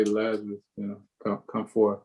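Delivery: a feeble half-hearted summons; mock timid call. Pastor mocking a weak way Jesus might have called, soft and meek. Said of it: "did he just, like, say".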